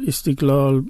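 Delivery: "استقلال" as istiklal; Turkish pronunciation. Shown as a demonstration. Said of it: "وقتی ترکی میشنوید". («استقلال» با تلفظ ترکی)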